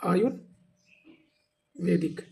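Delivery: आयुर्वेदिक drawn out slowly, syllable by syllable. Shown as a demonstration. Teacher showing students the correct spelling, drawn out. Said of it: "ऐसे लिखा जाता है".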